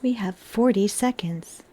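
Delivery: hushed unvoiced whisper. Real, not acted. Streamer whispering a countdown to chat. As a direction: whisper it under your breath.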